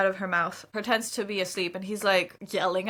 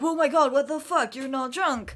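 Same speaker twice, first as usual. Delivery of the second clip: imitated shock; 5 semitones higher than usual. Host voicing the man discovering she's sober, mock shocked. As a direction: start high, as if caught out, then ease off.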